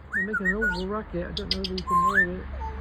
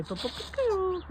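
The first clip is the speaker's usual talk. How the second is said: imitated calling; 13 semitones higher, slower than usual. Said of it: "We used to say".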